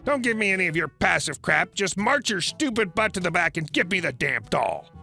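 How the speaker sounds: shrill, scornful telling-off; angry entitled mother. Acted. Entitled mother shouting down the narrator, angry and scornful. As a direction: cut him off and berate him.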